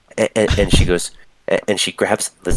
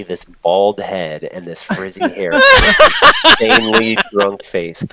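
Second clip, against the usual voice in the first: laughing description; 7 dB louder, slower than usual. Real, not acted. Game master describes drunk man to players, laughing hard. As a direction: crack up while describing it.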